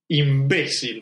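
"imbécil" stressed on BÉ; one strong syllable. Shown as a demonstration. Offering another insult, stress on the BÉ of "imbécil". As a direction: land on the middle of "imbécil". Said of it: "una sola sílaba fuerte".

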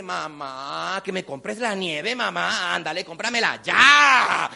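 slow whining, building to a yell; nagging little boy. Retold or imitated. Boy demands ice cream from mom, whining then yelling. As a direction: drag out the plea, shout the last word. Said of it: "Y me dice".

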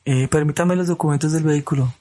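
lightly voiced stern traffic cop; a hint of a policeman asking for papers. Traffic cop at the checkpoint asks driver for documents, lightly voiced. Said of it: "ya cambié la voz de Tombo".

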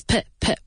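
"P, p" as short puh with a neutral vowel; weak first syllable. Shown as a demonstration. Teacher isolating the unstressed syllable, short "P, p". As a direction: clip "P, p" to a schwa. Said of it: "Emphasis on the second syllable".

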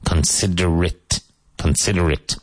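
Considerate ending in a short "-it"; correct reduced ending. Shown as a demonstration. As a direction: model Considerate carefully as con-SID-er-it. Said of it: "It's pronounced considerate".

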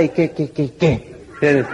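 a hint of a defiant tough guy; mock tough guy. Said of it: "quería verme más malo". (reto de tipo rudo, imitado a medias)

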